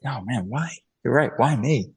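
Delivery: humbled wonder; grateful why me. Shown as a demonstration. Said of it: "intonation changes everything".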